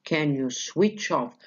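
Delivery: slow teacher's demo, beats on switch and off; stress on both parts. Shown as a demonstration. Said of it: "Phrasal verbs receive the stress on both parts".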